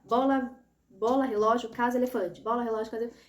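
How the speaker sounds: quick-fire list of picture names; rapid naming. Shown as a demonstration. Child naming test pictures against the timer, rapid naming. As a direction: rattle the words off as quickly as you can. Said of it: "o mais rápido que você conseguir".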